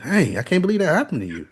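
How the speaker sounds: sarcastic fake enthusiasm; deadpan sarcasm. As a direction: fake excitement, high and dry. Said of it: "in the most deadpan voice".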